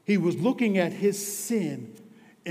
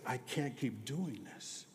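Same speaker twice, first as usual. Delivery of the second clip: quiet plea; 2 semitones lower, 10 dB quieter than usual. Retold or imitated. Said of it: "when I said".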